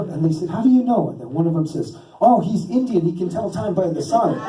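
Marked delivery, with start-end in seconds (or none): 0.5-1.1 amazed question. Retold or imitated. Retold kids challenge him, amazed. 2.2-4.4 put-on awed kid. Retold kid explains with awe.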